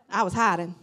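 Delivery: said through a real laugh. Real, not acted. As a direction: chuckle while owning up. Laughing admission of hiding.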